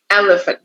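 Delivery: "elephant" with the weight on EL, the rest light; stress on first syllable. Shown as a demonstration. Teacher shows students where "elephant" is stressed. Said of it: "we stress the first syllable".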